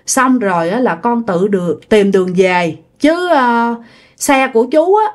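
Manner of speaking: slow, halting imitation of a middle-aged man; slow speech. The man agrees to take the lost rider a bit further, slowly. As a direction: draw it out, pausing between phrases. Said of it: "ổng nói chậm chậm chứ không phải là nói nhanh".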